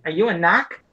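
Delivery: Boston "knock" for narc, r dropped; Boston accent. Retold or imitated. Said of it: "'cause of the damn accent".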